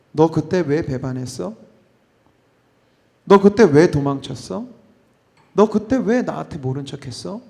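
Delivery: 천천히 따지듯 묻기; 잘못을 하나하나 짚어 묻듯; 추궁하는 말투. Pretend. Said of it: "이런 얘기 일 절 없어요". (따지는 말투)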